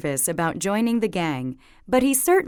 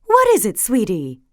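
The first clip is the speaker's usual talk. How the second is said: mother's voice; 5 dB louder than usual. Acted. Mama asking her upset daughter what happened. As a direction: ask like a worried mother.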